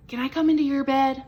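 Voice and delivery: little mouse begging to share the bed; little mouse pleading. A narrator's reading. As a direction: ask sweetly like a tiny mouse. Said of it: "asked Little Mouse".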